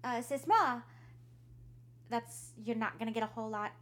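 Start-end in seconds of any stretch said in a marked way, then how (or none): 0.1-0.8 voiced daughter. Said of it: "she's like".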